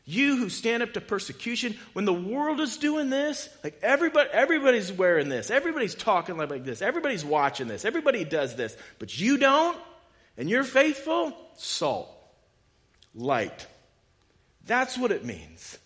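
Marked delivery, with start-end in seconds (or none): 0.1-3.8 loud, high, building fervor; rally them, full force; impassioned preaching. Acted. Preaching climax, voicing Jesus. 3.8-5.5 laughing mockery. Mocking the crowd, laughing. 5.5-13.7 loud, high, building fervor; rally them, full force; impassioned preaching. Acted. Preaching climax, voicing Jesus.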